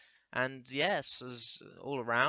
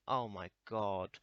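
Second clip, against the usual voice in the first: mock depressed lament; 4 semitones lower, slower than usual. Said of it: "make the world a lot more depressing".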